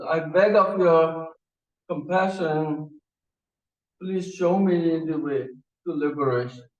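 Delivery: each word of "I beg of your compassion" drawn out slowly, formal and earnest; slow solemn plea. Retold or imitated. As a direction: plead slowly like a devoted disciple. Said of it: "he says".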